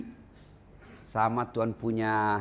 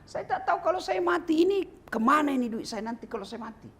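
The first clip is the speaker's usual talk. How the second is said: worried Prophet; 13 semitones higher, faster than usual. Acted. Nabi gelisah soal duit.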